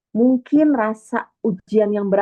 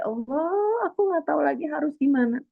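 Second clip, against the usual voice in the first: much higher, softer, tearful and quick; crying prayer; 8 semitones higher, 3 dB quieter than usual. Pretend. Speaker voicing a desperate believer at the point of tears, crying. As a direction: break down in tears before God. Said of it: "di titik nangis yang bener-bener".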